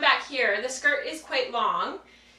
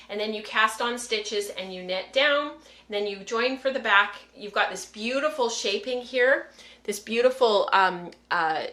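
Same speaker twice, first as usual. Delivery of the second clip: echoey, away from the mic; echoey room sound. Real, not acted. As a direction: speak from across an echoey room. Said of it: "Sorry for the echoey sound 'cause I've moved away from the microphone".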